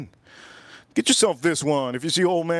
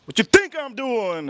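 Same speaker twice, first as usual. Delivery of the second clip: mock reply; 8 semitones higher than usual. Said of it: "driver answers cop".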